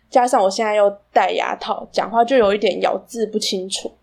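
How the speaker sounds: talking through braces, words a bit slurred. Real, not acted. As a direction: speak with braces, slightly unclear consonants.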